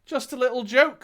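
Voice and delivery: high-pitched little trickster voice; playful leprechaun. A narrator's reading. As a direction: toss it off as a leprechaun prankster. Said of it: "says the leprechaun".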